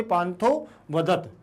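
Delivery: slow "पांथो वदत", the two words set apart; reading demonstration. Shown as a demonstration. Teacher shows students how to read the joined word, slow demonstration of "पांथो वदत". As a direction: read out "पांथो वदत" slowly, the elided a left silent. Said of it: "ऐसे पढ़ेंगे".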